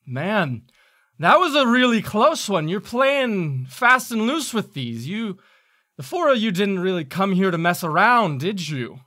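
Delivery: high, loud imp calling out; taunting imp. Acted. Galvan's voice calls from a different imp, taunting loudly. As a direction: jeer at them as a cocky imp. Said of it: "a voice that calls out and says".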